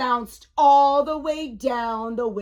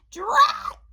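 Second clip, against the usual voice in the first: very high-pitched exasperated burst; thwarted storybook character; frustrated exclamation; 3 dB louder than usual. A narrator's reading. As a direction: squeal it in cartoon frustration. Failed pull, witch frustrated.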